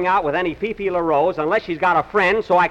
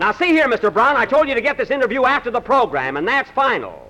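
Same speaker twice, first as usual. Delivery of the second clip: higher-pitched, acted scolding; comic annoyed rebuke; mild indignation; 6 semitones higher than usual. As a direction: put your foot down, mildly exasperated. Host scolds pushy reporter.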